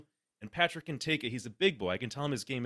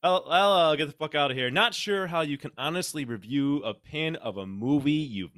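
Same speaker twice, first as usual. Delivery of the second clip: reading the comment through a laugh, with a sneer; mocking, laughing read; 3 semitones higher, 5 dB louder than usual. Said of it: "the way he types".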